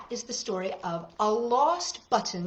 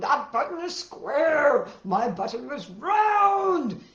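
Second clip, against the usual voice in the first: upset; 5 semitones higher, 5 dB louder, slower than usual. Acted. Toad getting upset.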